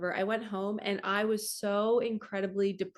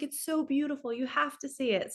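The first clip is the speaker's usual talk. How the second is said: insistent friends; 5 semitones higher than usual. Retold or imitated. Friends urging her to come see.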